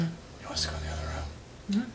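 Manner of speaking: playful hushed whisper; mock whisper. Teasing Danielle about keeping her out, in a mock whisper. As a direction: whisper as if not to disturb her.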